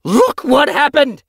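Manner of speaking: high, loud, drawn-out yowl; horrified yowl. A narrator's reading. Yellowfang showing her leader the body, yowled. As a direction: yowl it in outrage. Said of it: "she yowled".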